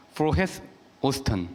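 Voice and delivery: "Frohes Ostern" in two separate, careful words; tentative German pronunciation. Shown as a demonstration. Priest trying unfamiliar German from a translator, careful "Frohes Ostern". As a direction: sound out "Frohes", pause, then "Ostern" falling. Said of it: "제 발음이 틀리는데".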